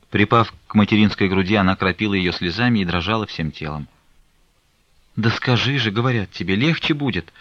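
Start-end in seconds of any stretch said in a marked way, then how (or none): 5.2-7.3 urgent coaxing, rising in pitch; gently insistent mother's urging. A narrator's reading. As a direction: coax her to open up. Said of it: "продолжала уговаривать Аксинья Захаровна".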